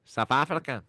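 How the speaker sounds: passable put-on South African; amateur South African accent demo. Shown as a demonstration. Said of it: "My South African is okay".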